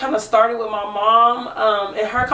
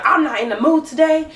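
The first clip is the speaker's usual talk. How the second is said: curt mimicry, pitched up; imitating her barking; 5 semitones higher than usual. Mocking the neighbor's rude greeting, curt. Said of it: "she just was barking".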